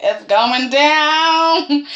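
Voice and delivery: a high, loud, drawn-out ooh, then slow and savoring; gleeful ooh. Retold or imitated. Delighted fans reacting to Eric's CEO line, high and drawn out. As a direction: squeal like the drama just got good. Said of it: "we were like".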